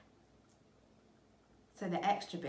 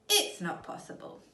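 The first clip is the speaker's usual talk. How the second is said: higher, breathless horrified whisper; 10 semitones higher, 6 dB louder than usual. Acted. Missus Twit horrified, whispering to her husband. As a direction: gasp it in horror.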